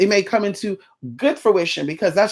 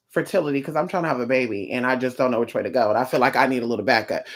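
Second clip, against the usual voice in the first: low, softer client confiding a request; hesitant client; 7 semitones lower, 5 dB quieter, faster than usual. Acted. Client asking another source for fertility work, low and hesitant. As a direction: lightly voice an unsure client, pitched down. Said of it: "Then you go hit up this source and say".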